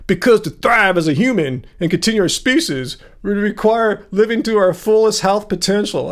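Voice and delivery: put-on accent, lightly derogatory; derogatory reading. Streamer reading out a commenter's claim, derogatory manner. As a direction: read it out as a mocking quote. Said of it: "why am I reading in a derogatory manner?".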